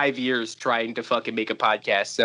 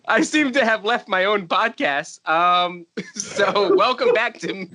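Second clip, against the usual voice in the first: laughing; 5 semitones higher than usual. Real, not acted. Laughing after tech failure.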